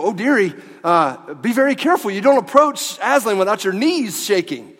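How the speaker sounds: half-hearted beaver voice. Retold or imitated. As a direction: lightly play the kindly warning beaver. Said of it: "I'm not gonna try to talk like the beaver".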